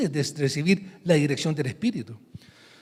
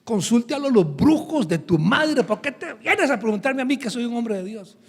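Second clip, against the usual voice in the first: raised, indignant scolding; angry prophet; 4 semitones higher than usual. Acted. Profeta enojado reprende al rey, con voz alzada. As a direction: spit it back at the king, offended. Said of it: "El profeta estaba enojado".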